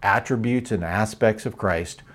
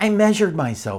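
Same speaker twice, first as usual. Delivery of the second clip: put-on young boy's proud, high-pitched exclamation; 8 semitones higher than usual. A young boy answers his mother's question: proudly exclaimed. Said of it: "the boy proudly exclaimed".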